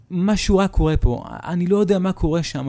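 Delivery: scared and pressing; urgent warning. Acted. Warning sister of danger. (אזהרה דחופה ומבוהלת)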